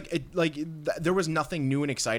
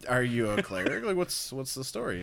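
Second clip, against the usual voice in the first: mock excitement; 6 semitones higher than usual. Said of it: "I'm like".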